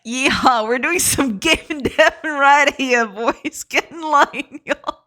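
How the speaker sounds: hammed-up Southern cowboy accent, breaking into laughs; Southern American accent. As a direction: play a rowdy Southern US yeehaw type. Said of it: "says it in a Southern American accent".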